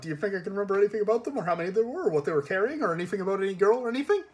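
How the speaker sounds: frantic driver with nervous ha's, rising in pitch; burbling into high-pitched wheeze. A narrator's reading. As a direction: gabble innocence, building to a wheeze. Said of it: "his voice was a high-pitched wheeze".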